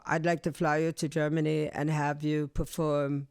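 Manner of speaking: lightly imitated German producer; German accent. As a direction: put on a mild German accent. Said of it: "This is me doing a German accent".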